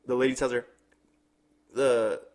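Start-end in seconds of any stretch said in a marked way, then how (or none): 1.7-2.2 higher broken English voice. Retold or imitated. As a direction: imitate her broken English. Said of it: "She has broken English".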